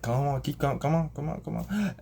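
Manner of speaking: mild, rising encouragement; urging on. Acted. Jesus urging Peter across the water, lightly excited encouragement. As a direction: coax with quick repeats, pitch climbing.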